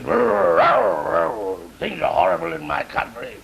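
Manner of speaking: put-on growl, then complain in an English accent; grumbling bulldog with an English accent; English-accented talking dog. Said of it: "And the English dog says".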